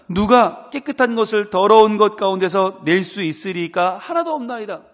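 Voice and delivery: loud, declaiming Bible reading; scripture reading. Acted. Pastor reading Job's verse to the congregation, loud declamation.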